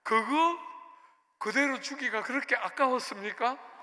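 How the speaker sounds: retold aggrieved challenge, pushed out strongly; crooked reproach. Pastor accusing God of begrudging him the car, indignant. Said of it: "또 삐딱하게".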